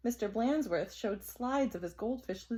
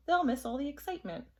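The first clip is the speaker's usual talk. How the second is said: chirpy principal; 5 semitones higher, faster than usual. Acted.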